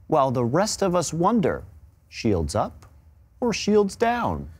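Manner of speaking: lightly rhythmic rhyme reading; bedtime story poem. Acted. Caster reciting his rhyming team story on air, lightly sing-song. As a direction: recite the verse like a storybook, a touch of drama.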